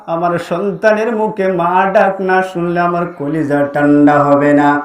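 low chanted mother's plea; acted grief in a melodic preacher's cadence; mournful pleading. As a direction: lament it musically on a low note. Bereaved mother pleading in sermon story.

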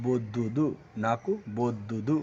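নাকু বদ্দুদু at half speed, syllables separated; slow teaching delivery of নাকু বদ্দুদু; slow Telugu demo. Shown as a demonstration. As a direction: spell out বদ্দুদু slowly. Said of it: "কী হয়ে যাবে".

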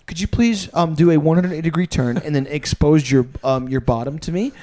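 mock proper medical phrasing; lightly posh pretend doctor; formal doctor voice. Patient imagining a proper doctor, a hint of formality. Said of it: "for one fucking second go".

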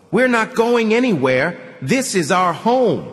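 mother hauling her son away; sharp mother's order. A narrator's reading. Mother refuses.

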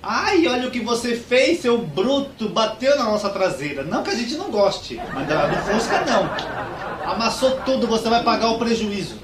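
high, loud, drawn-out campy fuss; high-pitched theatrical outrage; camp scandalized outburst. Acted. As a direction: make a hammed-up scene as an effeminate young man. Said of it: "já saíram fazendo escândalo".

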